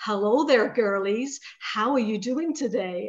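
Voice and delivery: put-on broad American accent, laid on. Retelling what a talking Christmas tree said: broad American accent. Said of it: "in this broad American accent".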